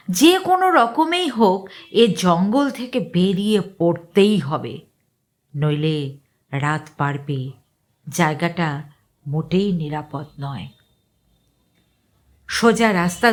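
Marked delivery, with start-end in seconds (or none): none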